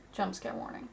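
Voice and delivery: soft breathy whisper. Shown as a demonstration. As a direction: whisper the warning under your breath.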